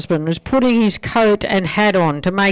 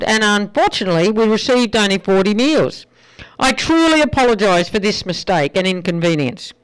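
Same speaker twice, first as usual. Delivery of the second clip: light Irish flight attendant, a bit higher; apologetic announcement in a lilting Irish accent; 3 semitones higher than usual. Acted. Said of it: "in her lovely Irish voice".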